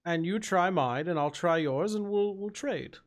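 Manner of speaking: lightly voiced courteous ogre; a hint of genteel ogre, lifting at the end; polite ogre, generous. Ogre proposing a drink swap, politely friendly.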